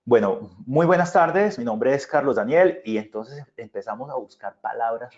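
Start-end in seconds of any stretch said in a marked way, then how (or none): 0.1-2.8 stiff formal speaker. Retold or imitated. Stiff public speaking parody.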